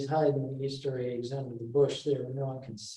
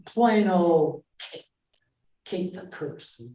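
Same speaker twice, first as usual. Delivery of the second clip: Petruccio retorting; 3 semitones higher, slower than usual. Retold or imitated. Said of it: "He said".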